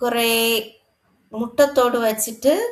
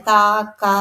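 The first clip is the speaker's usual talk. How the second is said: imitated crow caw; 3 dB louder than usual. Shown as a demonstration. Teacher shows pupils how a crow cries, light cawing imitation. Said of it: "കാക്ക എങ്ങനെയാണ് കരയുന്നതെന്ന് അറിയാം".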